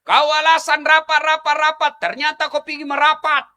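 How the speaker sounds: lebih tinggi dan keras, mendesak; ceramah berapi-api. Acted. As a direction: mengecam dengan semangat penuh. Menegur bapak-bapak dengan keras. (ustaz menegur ibu-ibu dengan ceramah berapi-api)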